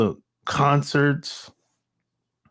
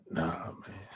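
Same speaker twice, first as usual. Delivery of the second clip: whispered dismissal; 11 semitones lower, 18 dB quieter than usual. Real, not acted. Dismissing the friends' trust.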